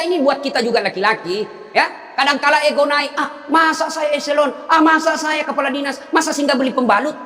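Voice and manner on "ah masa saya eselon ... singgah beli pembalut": proud scoff. Retold or imitated. Proud official's ego voiced. (nada meremehkan yang angkuh dan lambat)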